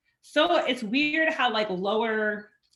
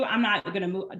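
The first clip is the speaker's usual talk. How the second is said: ordinary talk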